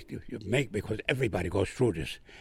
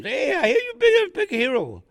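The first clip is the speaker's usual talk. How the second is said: teasing laugh; 7 dB louder than usual. Retold or imitated. Buddy teasing him about heroism.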